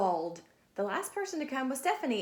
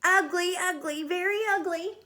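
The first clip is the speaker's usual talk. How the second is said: high mocking schoolyard chant; high sing-song taunt; taunting kids; 8 semitones higher, 7 dB louder than usual. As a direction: sneer it like teasing classmates. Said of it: "the other kids saw her and said".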